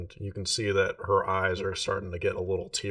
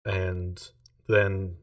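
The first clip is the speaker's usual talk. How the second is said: a lightly voiced numb servant; monotone voice. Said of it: "It's been very monotone this whole time".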